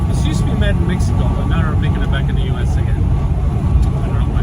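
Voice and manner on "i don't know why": whispering. Real, not acted. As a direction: whisper it to yourself. Whispered aside.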